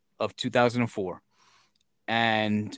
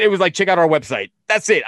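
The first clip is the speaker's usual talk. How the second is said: mocking; 5 semitones higher, 7 dB louder than usual. Mocking the flyer, loud.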